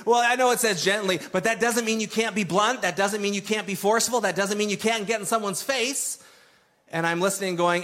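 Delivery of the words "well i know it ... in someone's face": quick, higher mock of a preacher explaining it away; mocking another preacher. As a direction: lightly imitate a preacher bending the word, a bit fast. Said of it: "He's saying".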